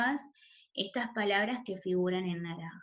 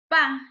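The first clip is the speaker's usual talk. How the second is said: "pa" much louder, a short burst; stressed syllable; 3 semitones higher, 12 dB louder than usual. Shown as a demonstration. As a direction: punch "pa" out as the strong syllable. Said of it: "su sílaba tónica en pa". ("pa" con mucha fuerza, como sílaba tónica)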